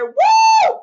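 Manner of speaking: high, loud imitated "woo"; whooping cheer. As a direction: whoop the viewer's message out. Reading out a viewer's cheer.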